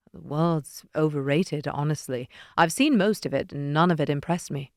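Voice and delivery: a hint of a low, teasing Leonid. Leonid teasing narrator, lightly voiced.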